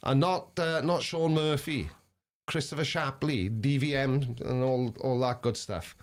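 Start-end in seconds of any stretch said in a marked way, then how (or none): 2.5-6.0 trailing off short of breath; running out of air. Real, not acted. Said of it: "I'm running out of breath".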